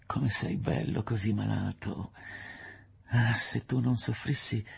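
tender admiration, lingering at first; a touch of adoring rapture; lightly voiced enraptured lover. Woman gazing at the sick man she loves, enraptured.

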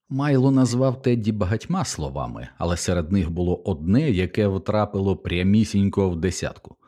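usual speaking voice

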